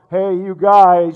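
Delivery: booming loud, drawn-out call; megaphone shout. Pretend. Preacher imagines God calling the whole world, booming megaphone shout. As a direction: boom it out as through a megaphone. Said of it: "he would have this giant megaphone".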